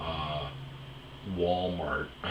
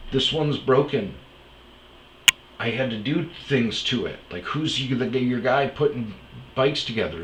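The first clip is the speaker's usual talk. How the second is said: retold argument; 4 semitones higher, 4 dB louder than usual. Arguing with the store employee.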